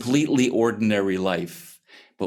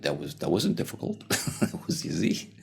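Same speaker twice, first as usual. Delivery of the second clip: amused relief; 2 semitones lower, 5 dB quieter than usual. Acted. Dorothy marvels at easy kill.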